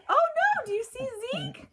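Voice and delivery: high, loud oh no; startled as the dog jumps in; sudden loud, high oh no; alarmed. Real, not acted. Real dog goes for treats.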